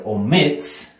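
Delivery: "omits" as o-MITS, force on the final syllable; stress on last syllable. Shown as a demonstration. Teacher gives example of "omits" with final-syllable stress. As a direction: lean hard on "mits" in "omits". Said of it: "está al final".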